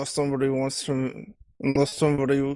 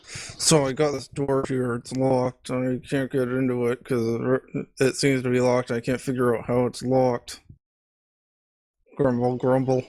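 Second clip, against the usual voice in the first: angry mumbling; slower than usual. Pretend. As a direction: fake an annoyed mutter to yourself. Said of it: "pretend you're mumbling under your breath all angry like".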